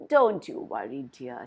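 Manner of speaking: put-on an old woman reassuring the girl; kindly. A narrator's reading. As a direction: soothe the crying girl gently. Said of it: "said the woman kindly".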